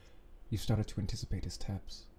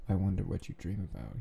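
put-on British accent. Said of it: "he adds in a British".

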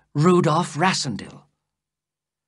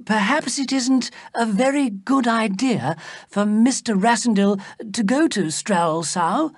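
higher-pitched, tentative objection; worried; 7 semitones higher than usual. A narrator's reading. Fritz cautions the king about the stranger, worried. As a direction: voice a mild worry, pitched up. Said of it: "Fritz said, worried".

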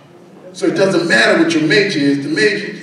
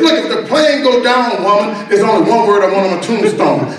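emphatic insistence; 4 semitones higher than usual. Retold or imitated. Husband telling his wife his last wish, mock-emphatic insistence. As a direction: act out a husband pressing his point.

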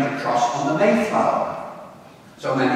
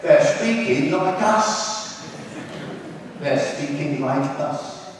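put-on slow, amazed Cockney kid; drawn-out Cockney; Cockney accent; slower than usual. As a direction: imitate a London lad, drawing the words out. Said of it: "in a strong Cockney accent".

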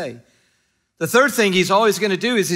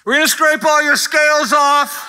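laughing mock shout; 7 semitones higher than usual. Fisherman announcing to fish, laughing.

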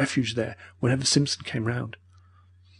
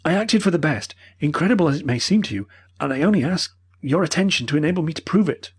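put-on pleading old professor; 6 semitones higher than usual. A narrator's reading.

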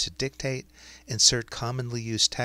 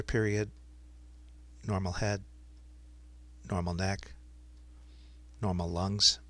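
dictating. Shown as a demonstration. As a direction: dictate clearly to speech software. Dictates a medical note to software.

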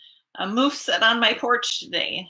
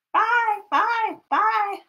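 high singsong farewell; singsong goodbye; 9 semitones higher, slower than usual. Acted. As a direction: sing out bye. Waving off the jay.

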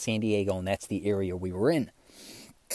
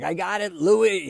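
high, rising mock holler; excited, higher-pitched call to a friend; excited cousin; 9 semitones higher, 4 dB louder, slower than usual. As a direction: imitate a buddy crowing over his catch. Retold cousin cheering his video.

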